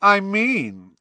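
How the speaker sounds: high, loud and pointed. A narrator's reading. Malfoy baiting Harry and Ron, raising his voice. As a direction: raise the voice so others hear. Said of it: "raising his voice a little more".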